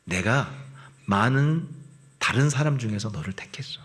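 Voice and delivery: whispered loving assurance; tender whisper of God. Acted. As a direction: hush it like a secret of love. God's words of choosing voiced.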